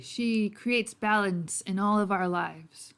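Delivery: put-on slow, lightly Irish-accented preaching. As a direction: explain your faith slowly with a light Irish lilt. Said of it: "I'm guessing he's more Irish".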